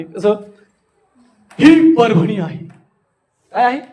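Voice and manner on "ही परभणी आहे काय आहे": exaggerated wonder. Shown as a demonstration. Speaker presents the town Parbhani, mild astonishment. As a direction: present it as a marvel. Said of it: "फुल तिच्या पुढे एक चिन्ह आणणे".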